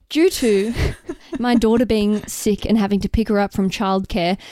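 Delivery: formal newsreader read. Acted. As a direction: read it like the evening news. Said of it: "read it out in your newsreader voice".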